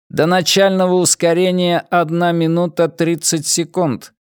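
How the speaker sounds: high, even ship-computer announcement; metallic robot voice. Acted. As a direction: speak like a cold onboard computer. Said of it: "сообщил металлический голос". (металлический голос бортового компьютера)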